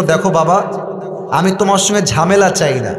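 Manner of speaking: usual speaking voice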